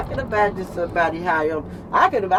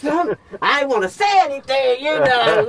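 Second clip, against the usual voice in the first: louder, higher, animated; excited; 6 semitones higher, 5 dB louder than usual. Real, not acted. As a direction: tell it all worked up. Excited telling of drunken confusion.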